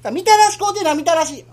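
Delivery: put-on high childish pleading; child begging. Boy begging father for candy, high childish whine.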